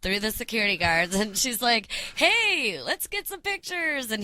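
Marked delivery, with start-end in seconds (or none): 2.2-4.1 put-on squeaky excited girl voice; bright high ask for photos; high girly voice. Girl voiced in retold story.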